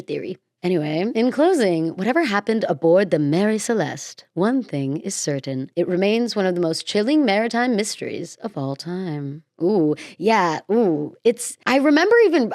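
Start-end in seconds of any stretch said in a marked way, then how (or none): 0.6-9.4 podcast script read. Acted. Host wrapping up the episode for listeners, measured script read. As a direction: deliver the closing line of the mystery segment.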